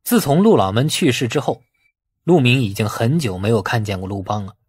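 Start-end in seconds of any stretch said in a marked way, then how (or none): none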